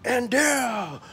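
slow, building announcer call; lightly hammed wrestling introduction; ring announcer. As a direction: announce the challengers with big pauses. Announcing challengers wrestling style.

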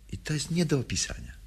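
quick breathless whisper; whispered confession of the indescribable. Acted. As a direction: hurry it out in a whisper. Sudden hushed confession.

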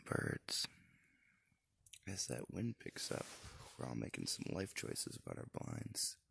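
hushed whisper in the blind. Real, not acted. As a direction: keep it to a whisper.

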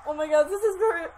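excited squeal. Real, not acted. Reacting to on-screen proposal.

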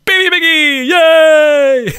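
very high, very loud squeal; squealing delight. Real, not acted. Squealing at the baby pig in the pen.

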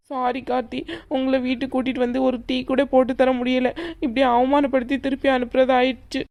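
tearful apology. Acted. Young woman apologising to her boyfriend for the humiliation, tearful. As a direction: say sorry while trying not to cry. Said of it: "நீ அழுகுறத என்னால பார்க்க முடியல".

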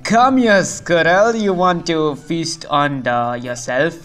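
lightly hammed-up villain threat ending in laughter; mock villain with a laugh; playful menace.

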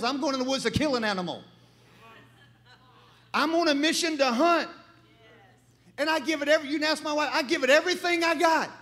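preaching. Acted. Preacher urges men to give their all, rising exhortation. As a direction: fire up the men in the pews.

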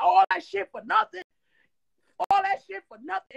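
high, loud outraged yell; furious outburst. Retold or imitated. Storming out of the bathroom at the producers, a loud angry yell. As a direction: shout it storming out, fed up.

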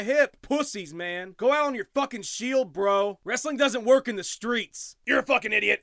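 a hint of a drunk bar fan; bro fan voice. Plays MMA Bar Guy character.

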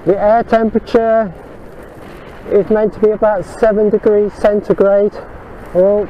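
muffled voice, mouth covered. Real, not acted. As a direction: talk through a covered mouth. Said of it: "if I sound muffled".

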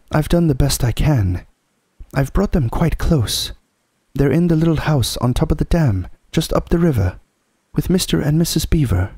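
put-on high boy's voice, anxious to explain; Edmund, pleading boy. Edmund excusing himself to the Witch, pleading. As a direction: pitch it up and justify yourself to a queen.

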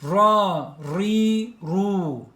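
"Ra, ri, ru" with a full Arabic r; teacher drilling "Ra, ri, ru"; syllable drill. Shown as a demonstration.

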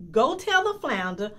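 loud, commanding wife giving orders; ordering. A narrator's reading. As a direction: bark the order at the husband. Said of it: "the wife ordered".

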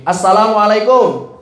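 drawn-out Indonesian-style salam; Indonesian-accented Arabic greeting. Shown as a demonstration. Teacher mimics a salam no Arab would say, Indonesian accent. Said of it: "orang Arab ngomongnya begini".

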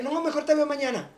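high, light decline; polite refusal. Retold or imitated. Declining the friend's invitation, light and high. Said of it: "Y le dije".

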